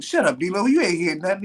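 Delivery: high, impatient mock telling-off; New Jack. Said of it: "He's like".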